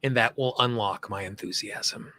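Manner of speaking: measured lead-and-repeat delivery with long pauses; guided tapping affirmations. Shown as a demonstration. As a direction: say each affirmation phrase by phrase, leaving room to repeat.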